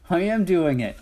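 excited yell. A narrator's reading. Little dragon shouting to mama as he flies, excited. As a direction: shout it out with joy. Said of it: "I yelled".

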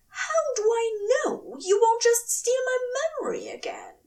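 high, breathy frightened whisper; anxious whisper. A narrator's reading. Angel whispering his fear of memory theft. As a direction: whisper it, scared of being hurt again. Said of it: "he spluttered".

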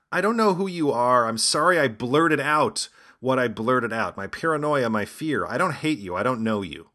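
lightly mock a man crying at his arraignment; mock teary apology. Host imitating the tearful defendant apologizing, in a mock sobbing voice. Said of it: "He went on to say".

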